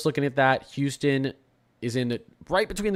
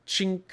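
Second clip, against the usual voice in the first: short high-pitched flash noise; imitated gadget click; 8 semitones higher than usual. Streamer acting out Men in Black gadget, imitated gadget click. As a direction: mimic a memory-wiper going off. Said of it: "you know the thing from, um, Men in Black".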